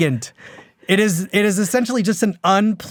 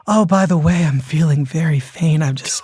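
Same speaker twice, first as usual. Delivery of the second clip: Southern belle. Retold or imitated. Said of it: "making her a Southern belle".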